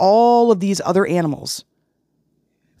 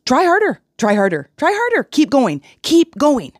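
high, pushy cheering monkey; perky monkey guru, high and a bit louder; monkey cheerleader; 10 semitones higher, 3 dB louder than usual. Acted. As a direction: cheer them on without really caring. Monkey urging the fish.

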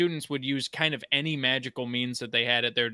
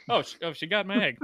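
lightly voiced dragon, higher and quick; a hint of mock dismay, pitched up; flustered dragon; 5 semitones higher, faster than usual. Dragon finding Fleur took the egg, mildly flustered. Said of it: "the dragon's just like".

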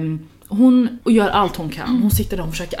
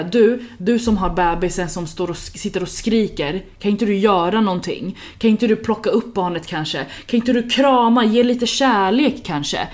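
mock condescending announcement; 2 semitones higher than usual. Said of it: "han väljer att ropa ut och säga".

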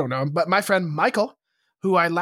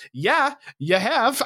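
slow, higher-pitched insistence; doubling down; 7 semitones higher, slower than usual. Retold or imitated. Insisting to a friend's girlfriend, stubbornly doubling down. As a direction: draw it out, refusing to back off. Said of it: "I doubled down".

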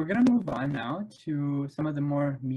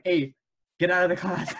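put-on teacher barking in an Arab accent; 3 semitones higher, 5 dB louder than usual. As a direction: imitate the Arab-accented teacher kicking him out. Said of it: "he had, like, a thick Arab accent".

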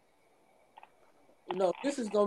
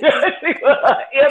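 chipmunk voice; 4 semitones higher, 16 dB louder than usual. Real, not acted. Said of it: "chipmunk rat".

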